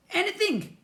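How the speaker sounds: high, slurring bird voice; slurred. A narrator's reading. Slime eagle answering the boy, slurred and high. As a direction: slur it like a slimy bird. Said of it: "or slurred".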